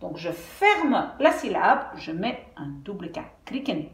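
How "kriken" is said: KRIKEN avec un I bref; I court. Shown as a demonstration. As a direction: dire KRIKEN sans étirer le I. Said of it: "je veux que ça reste court". (KRIKEN, voyelle brève)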